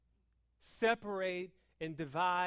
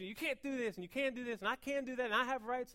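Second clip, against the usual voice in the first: higher pitched, indignant quoting; mock indignant protester; 6 semitones higher, faster than usual. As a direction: voice the outraged side. Quoting angry culture-war voices.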